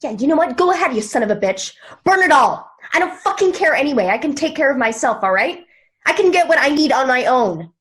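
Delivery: snapping at someone on the phone; angry phone outburst. Acted. Furious phone call, fuming.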